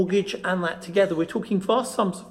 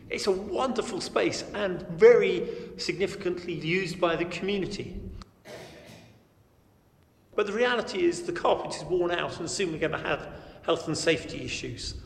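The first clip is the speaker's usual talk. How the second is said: hallway echo; 4 dB quieter than usual. Real, not acted. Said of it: "As you can hear from the echo of my voice".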